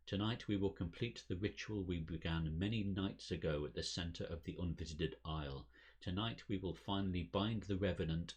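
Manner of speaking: lightly voiced solemn cult leader; formal ceremonial speech; elderly lodge president. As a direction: address the faithful with measured conviction.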